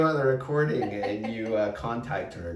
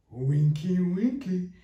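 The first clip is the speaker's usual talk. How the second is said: high sing-out of a teasing word; teasing friend; 8 semitones higher, 3 dB louder, slower than usual. Retold or imitated. Friend teasing her over wine at a restaurant, high-pitched mimicry. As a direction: raise the pitch, imitating the amused friend. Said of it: "she starts laughing".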